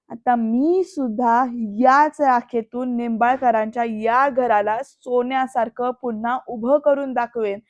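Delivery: resolute vow. Retold or imitated. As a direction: retell a determined challenge, weighing each phrase. Villain-challenged heroine's vow, retold.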